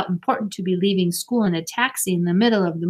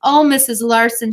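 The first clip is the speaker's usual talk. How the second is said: eager; 4 semitones higher, 6 dB louder than usual. A narrator's reading. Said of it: "Marcia was eager to break the news".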